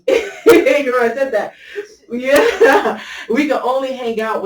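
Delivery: real laughter breaking into the line; laughing. Real, not acted. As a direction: crack up mid-sentence. Laughing while recalling own remark.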